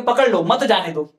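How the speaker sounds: पकड़ लो, a break, then मत जाने दो; pause after पकड़ लो. Shown as a demonstration. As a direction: stop after लो, keep मत with जाने दो. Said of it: "विराम चिन्ह को यहाँ शिफ्ट कर दूं".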